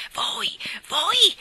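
high, loud, shocked outburst; distraught stammer. A narrator's reading. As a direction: stammer it out at full voice, appalled. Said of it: "balbettò la signorina Andrews sconvolta". (sconvolta, grido acuto e balbettato)

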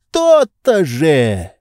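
high, slow, reproachful lecturing; a pampered master scolding his servant; indignant master. A narrator's reading. Oblomov triumphant.

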